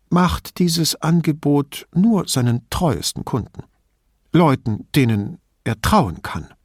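put-on old lady, indignant and chatty; old signora. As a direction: play the suspicious old woman complaining about thieves.

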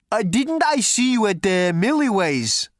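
loud, high booming thunder god. A narrator's reading.

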